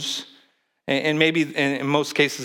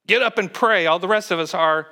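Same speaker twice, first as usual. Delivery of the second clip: urgent plea; 4 semitones higher than usual. Pretend. Captain's plea repeated.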